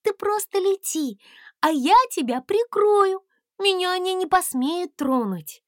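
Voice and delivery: high, brave encouragement; encouraging princess. A narrator's reading. Princess promising to protect the dragon. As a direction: give him courage.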